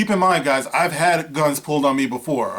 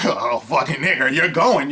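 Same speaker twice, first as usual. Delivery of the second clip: hostile redneck. Retold or imitated. Hostile gunman voiced.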